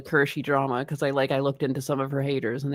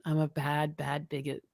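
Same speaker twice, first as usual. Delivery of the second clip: whispered, much softer mock shame; mock guilty whisper; 3 semitones lower, 13 dB quieter than usual. Co-host pretending shame at being called a bigot, whispered. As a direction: hush it like a naughty child caught out.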